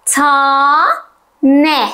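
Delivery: slow, split into two beats: "Ta-ne"; syllables drawn apart. Shown as a demonstration. Teacher spelling a word for a child, slowly split. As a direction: stretch "Ta-ne" syllable by syllable. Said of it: "Hadi bunu da yazalım".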